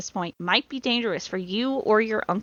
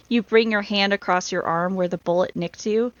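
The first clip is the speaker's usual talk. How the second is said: ordinary talk, nothing marked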